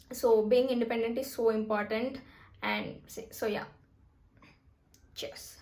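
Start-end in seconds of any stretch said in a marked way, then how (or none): 2.6-5.6 talking while chewing; words round a bite of food; mouth full. Real, not acted. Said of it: "Sorry, I'm eating and talking".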